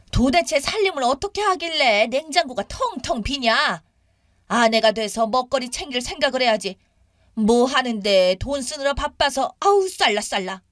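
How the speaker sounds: acted scolding that runs into babble; nagging mother-in-law. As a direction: berate her about the housekeeping. Mother-in-law nags about housekeeping.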